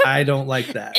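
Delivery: laughing, mock disgusted. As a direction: laugh through it, grossed out. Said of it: "made people go".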